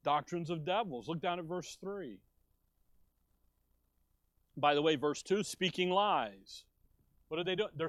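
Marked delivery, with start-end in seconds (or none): 5.4-6.7 drawn out very slowly, each word weighed; speaking lies stretched out slowly and heavily; slow emphatic. Acted. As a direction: lean hard into the accusation. Preacher slowing for emphasis.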